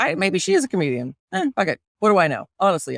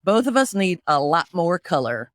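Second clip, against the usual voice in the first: put-on Southern accent; 5 semitones lower than usual. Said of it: "So I'll do Southern".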